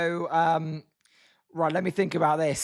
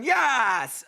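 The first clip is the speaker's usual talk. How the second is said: raised, drawn-out imitation of a celebrating yell; loud mock cheer; 4 semitones higher than usual. Commentator imitating the fired-up Tigers pitcher, loud mock cheer. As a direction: imitate the pitcher's triumphant "Yes!". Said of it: "that was a bit loud".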